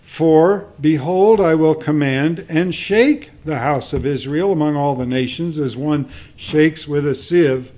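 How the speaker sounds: loud proclamation, punching the key words; emphatic scripture reading. Acted. Preacher reading God's warning to Israel, loud and emphatic. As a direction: declare it forcefully as prophecy.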